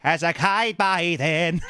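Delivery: high, slow wistful voice; mock dying man. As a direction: sigh it out like on a deathbed. Imagined deathbed self.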